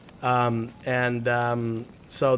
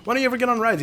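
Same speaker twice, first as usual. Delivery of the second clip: put-on higher pleading child's voice; pleading kid; 10 semitones higher, much faster than usual. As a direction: nag Dad like an eager kid. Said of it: "one time I was like".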